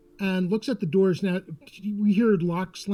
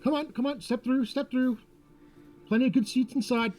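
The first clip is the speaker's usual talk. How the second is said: showman's welcome; 5 semitones higher than usual. Acted. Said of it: "Chuck opens the door and".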